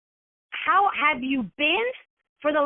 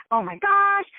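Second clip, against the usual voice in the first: mock pouty moan, raised in pitch; 6 semitones higher than usual. Host of a no-show event moans to herself, pouting. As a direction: whine it like a sulking victim. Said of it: "moan and go".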